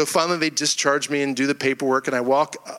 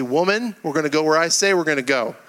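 hammed-up, insistent ordering about; mock bossy; 2 semitones higher than usual. Child wrongly telling mom where to eat, mock bossy. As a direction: lay down the law in jest, voice lifted.

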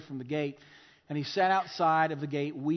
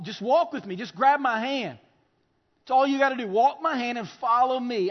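higher, emphatic pleading in another's voice; preacher acting out an insistent invitation; urgent insistence; 3 semitones higher, 4 dB louder than usual. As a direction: urge them on, pitched up and forceful. Preacher voices Jesus urging listeners.

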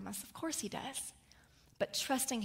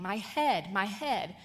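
mild mock scream; 5 dB louder, slower than usual. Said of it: "he is screaming".

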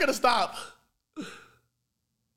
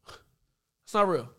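slow repeat; much slower than usual. Real, not acted. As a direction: stretch every word out slowly. Same words repeated much slower.

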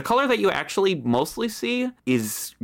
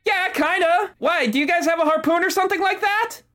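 rival captain; 10 semitones higher than usual. Acted. GM voices rival captain again.

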